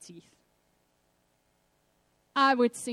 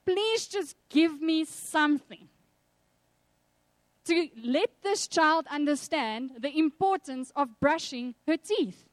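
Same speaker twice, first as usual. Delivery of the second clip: desperate plea; 3 semitones higher, slower than usual. Retold or imitated. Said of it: "I just said to God".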